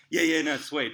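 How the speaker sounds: loud, high, over-bright reassurance; hammed-up "all good" while choking; too-loud fake calm; mock brushing it off. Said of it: "And I'm like".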